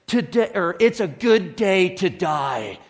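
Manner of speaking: a mildly heroic cartoon hamster declaring it; lightly voiced brave little hamster, the words set apart; heroic hamster quote. Retelling the hamster's line in the movie, a touch heroic. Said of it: "and he's like".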